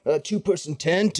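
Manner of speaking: a fussing merchant eager to help; fussy shopkeeper Gremag. Acted. GM voices Gremag showing tents.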